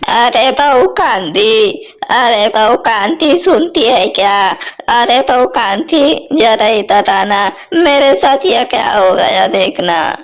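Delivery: mother-in-law summoning Kanti in alarm; calling out. Acted. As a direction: call the daughter-in-law from another room. Mother-in-law calls daughter-in-law for help.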